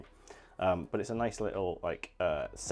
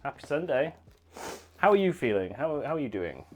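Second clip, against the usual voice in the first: cheerful greeting; 5 semitones higher, 4 dB louder than usual. Real, not acted. Greets viewer brightly.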